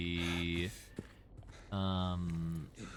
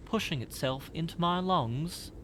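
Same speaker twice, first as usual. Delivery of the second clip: distressed tenant; 9 semitones higher than usual. Acted. Voices distressed note writer.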